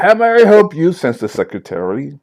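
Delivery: a high, bright New York receptionist try that breaks off; attempted female New York accent, high and loud; failed New York secretary. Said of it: "I can't do a female New York voice accent".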